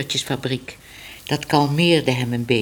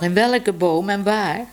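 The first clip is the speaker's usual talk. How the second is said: calling after her; 4 semitones higher than usual. Acted. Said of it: "Te laat riep hij nog".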